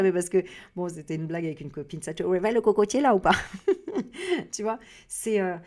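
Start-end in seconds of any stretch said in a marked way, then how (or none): 2.0-3.3 louder, goofy put-on voice, teasing the viewers; silly joke voice. Repeating a joke with a girlfriend to viewers, goofy louder put-on voice. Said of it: "je sais pas pourquoi je parle comme ça". 3.4-4.5 high laugh. Real, not acted. Laughs at own silly voice.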